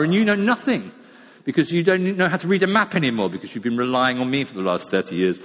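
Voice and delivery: smug, taunting gadget voice; gloating sat-nav. Pretend. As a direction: lord it over the lost driver. Sat-nav gloating over the lost driver.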